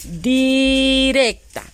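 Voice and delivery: directa stretched slowly; drawn-out word. Shown as a demonstration. Teacher to pupils, slow stretched word. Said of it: "Esa también es una sílaba".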